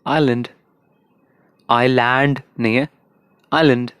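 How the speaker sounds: आइलैंड in an Indian accent with a retroflex d. Shown as a demonstration. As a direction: Indian English island. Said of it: "Indian में".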